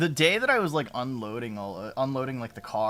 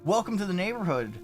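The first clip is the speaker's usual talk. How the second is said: put-on old neighbor; 3 semitones higher than usual. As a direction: impersonate the chatty elderly neighbor, pitched up. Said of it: "he's just like".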